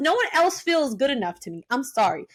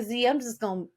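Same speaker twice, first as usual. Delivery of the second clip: quiet retold sulk; 4 semitones lower, 8 dB quieter than usual. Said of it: "I'm like".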